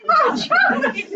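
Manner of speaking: high, loud, laughing; laughing Nan. Retold or imitated. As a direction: Nan chuckling your name. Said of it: "Nan's reply retold".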